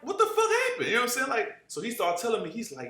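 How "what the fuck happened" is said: high, laughing disbelief; shocked question. Retold or imitated. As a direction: ask it half laughing, thrown by the news. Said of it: "I'm like".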